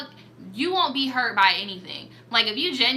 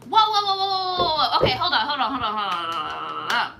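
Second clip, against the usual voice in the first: shocked; faster than usual. Real, not acted. Startled by the story twist, laughing in disbelief. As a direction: stop reading in shock, laughing.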